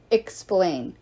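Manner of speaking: one cold, firm command; a touch of steel; hard voice. Acted. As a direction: demand it at swordpoint. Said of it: "Her voice was harder than Leo had ever heard".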